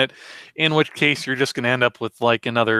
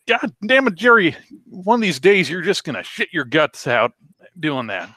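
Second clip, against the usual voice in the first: scolding wife; 5 semitones higher than usual. Retold or imitated. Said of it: "every morning she'd say".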